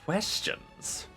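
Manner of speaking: irritated exclamation. Acted. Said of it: "The Lich exclaims in irritation".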